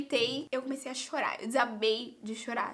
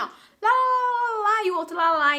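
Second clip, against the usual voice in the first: mock foreign chatter; 7 semitones higher, 9 dB louder than usual. Student mimicking classmates chatting among themselves, mock loud chatter. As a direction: imitate a noisy group chattering away. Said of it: "eles estavam super conversando, gente, assim, ó".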